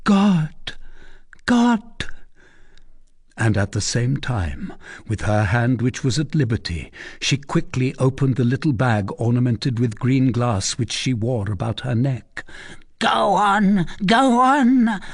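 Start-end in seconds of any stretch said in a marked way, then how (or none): 0.0-1.8 shocked exclamation. A narrator's reading. Gypsy shocked at seeing the little shoe, exclaiming. 13.0-15.0 high, forceful dismissal; angry grumbling. A narrator's reading. Gudule grumbles at the gypsy, angry impatience. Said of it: "grumbled Gudule".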